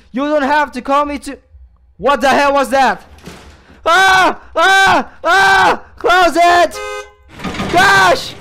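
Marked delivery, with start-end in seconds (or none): 3.9-5.9 three short, loud, high yells; panicked screams. Real, not acted. Player startled by the game, panicked screams. Repeated scare in horror game. 6.0-8.3 high, loud cry of alarm; panicked yell. Real, not acted. Player desperate to shut the door, panicked yell.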